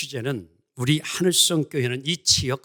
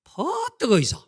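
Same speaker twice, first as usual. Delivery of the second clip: much higher, brisk Gyeongsang dialect; Gyeongsang accent; 12 semitones higher, 4 dB louder than usual. Retold or imitated. Pastor imitates a Gyeongsang speaker inviting guests in, high Gyeongsang accent. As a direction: bark it out like a hurried Gyeongsang local. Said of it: "경상도".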